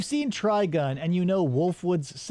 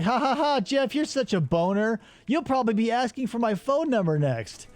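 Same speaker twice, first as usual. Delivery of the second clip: mocking woman; 6 semitones higher than usual.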